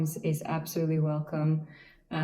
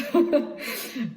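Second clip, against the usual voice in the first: light high laugh; a short, real laugh trailing off the story; 9 semitones higher than usual. Real, not acted. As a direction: let the laugh bubble out. Laughs after her own quote.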